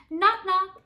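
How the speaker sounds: loud, high bellow across the breakfast table. A narrator's reading. Father bellowing a joke at the breakfast table, loud bellow. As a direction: boom it out like a big father. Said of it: "Fergus bellowed".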